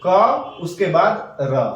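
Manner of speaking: slow letter by letter; teacher spelling out slowly; slow, spelled-out reading. Shown as a demonstration. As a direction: spell out each sign slowly. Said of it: "इसको कैसे पढ़ेंगे".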